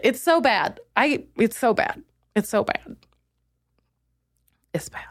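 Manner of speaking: trailing from plain to a whisper; so bad, fading to whispered defeat. Real, not acted. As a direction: let it die away to a whisper.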